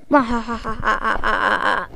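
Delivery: gloating cartoon villain cackle; villain laugh. Plankton gloating over his enemy, evil laugh. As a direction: cackle like you just won.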